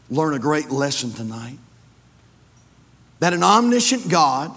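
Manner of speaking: measured prayer with long pauses; earnest public prayer. Real, not acted. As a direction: lead the congregation in prayer, phrase by phrase. Leads the congregation in prayer.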